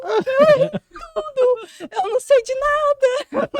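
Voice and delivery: berreiro agudo, alto e arrastado; choro exagerado, imitado. Retold or imitated. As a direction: estica as palavras num pranto cômico. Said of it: "e chorando". (chorando aos berros, de encenação)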